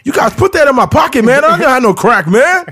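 high, loud indignant protest; high protesting suspect. Pretend. Suspect protesting planted crack.

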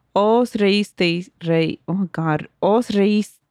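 measured Spanish poem recital; poem reading. Acted. Podcaster reading Spanish poem to co-host, recital. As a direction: read the verses aloud in a steady, sustained flow.

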